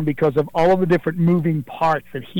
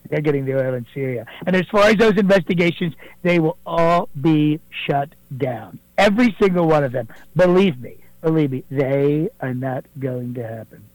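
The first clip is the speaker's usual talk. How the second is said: a fairly close Donald Trump impersonation, boastful. Acted. Impersonator calling the radio show as the president, Trump voice. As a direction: do Trump bragging to the host, leaning on believe me. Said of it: "calling in here is not President Donald Trump".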